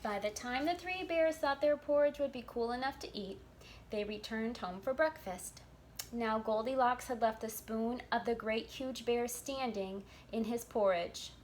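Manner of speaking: put-on lively read-aloud for children; storybook narration. A narrator's reading. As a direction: tell the tale to little listeners.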